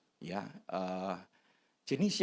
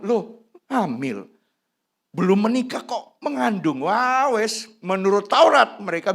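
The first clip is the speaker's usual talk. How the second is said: mock gossip; 7 semitones higher, 7 dB louder than usual. Voicing scandalised townsfolk.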